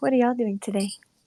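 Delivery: sugary, adorable, sweet cutesy voice. Asking the others what they are doing today: cute voice. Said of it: "Was that a cute Taylor voice?".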